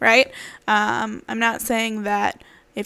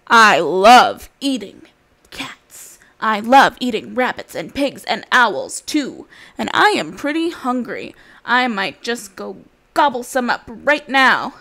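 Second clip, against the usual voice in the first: wolf; 5 dB louder, slower than usual. Acted. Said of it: "He says".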